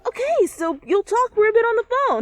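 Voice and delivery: high, loud, laughing through it; nervous laughter. Acted. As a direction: brush it off with nervous giggles.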